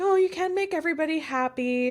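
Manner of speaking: woeful, dejected voice. Recalling how they used to say this: imitating own old sad tone. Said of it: "I used to say this in a really sad tone".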